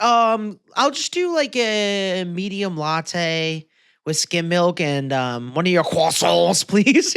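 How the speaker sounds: drawn-out café order with a showy French "croissants"; mock pretentious coffee customer; patronizing. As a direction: order slowly, then overdo the French on "croissants". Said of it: "almost patronizing when you're like".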